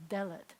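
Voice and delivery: "delet" with weight on "de"; DE-let, first syllable strong; stress on first syllable. Shown as a demonstration. Teacher repeats "delet", stressing the first syllable. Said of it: "accent's gonna be on the first syllable".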